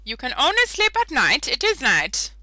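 high, loud whiny plea to the game; mock pleading. Real, not acted. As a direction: beg the game for sleep.

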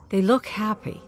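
wistful whisper. Acted. Wistful remark watching couple.

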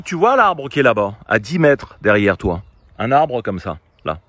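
annoyed captain shouting instructions at his partner; loud order. Retold or imitated. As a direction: bark it across the pitch, fed up. Angry captain ordering teammate.

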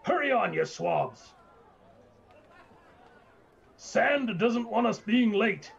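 high, drawn-out call to laggards; calling from downstairs. Acted. Voice downstairs to sleepy crew, high hurrying call. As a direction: hurry them along in a high voice. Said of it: "a voice from downstairs saying".

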